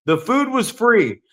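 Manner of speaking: teasing echo of a friend's excuse; mock repeat. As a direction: drag out "free" in disbelief. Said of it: "five minutes remain in this podcast".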